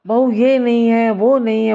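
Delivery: a hammed-up mother-in-law barking orders; bossy shouting. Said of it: "सास चिल्लाती".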